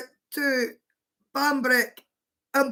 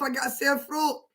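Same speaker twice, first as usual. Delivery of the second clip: 1 holding back laughter; 5 dB quieter, faster than usual. Real, not acted. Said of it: "it's hard to contain myself".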